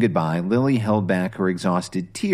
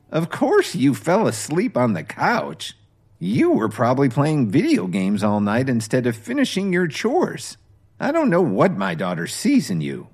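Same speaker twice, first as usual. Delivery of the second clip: scoffing mother-in-law; 5 semitones higher than usual. Acted. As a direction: sneer it down at a lazy son-in-law.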